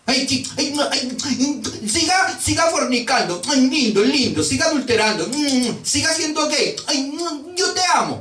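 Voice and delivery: high, cooing parody of permissive love; mock-doting indulgent God. Preacher parodies a God who blesses every sin, mock-doting. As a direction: coo sappily, far above your own pitch.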